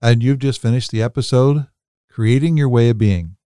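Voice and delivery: lifted, projected host sign-off; podcast outro. Real, not acted. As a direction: announce the next episode with lively emphasis.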